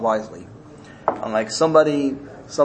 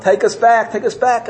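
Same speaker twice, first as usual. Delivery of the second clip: high, insistent begging; urgent pleading; 7 semitones higher, 3 dB louder than usual. Acted. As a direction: plead urgently to be let back in. Sinners plead to return.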